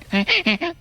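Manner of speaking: high-pitched honking noise; bike horn imitation. Joking about honking at a sleeper, high mock honks. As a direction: squeak out little honks like a horn.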